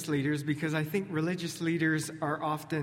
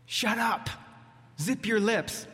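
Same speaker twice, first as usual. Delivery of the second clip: mock forceful shutdown; 6 semitones higher than usual. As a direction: playfully snap at the crowd. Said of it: "a forceful phrasing".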